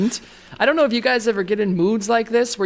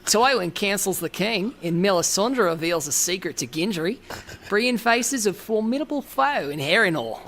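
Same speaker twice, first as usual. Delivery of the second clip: put-on Australian accent; 2 semitones higher than usual. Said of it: "Don't break character, Tony".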